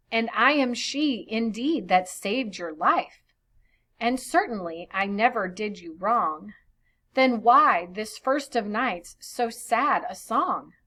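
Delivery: put-on measured reading of old verse; storyteller's verse voice. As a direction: read the poem aloud to the class. Reads verse translation aloud.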